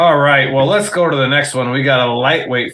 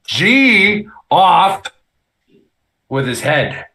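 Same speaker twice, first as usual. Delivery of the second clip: proclaiming; 5 semitones higher, much slower than usual. Acted. Punning off with his head.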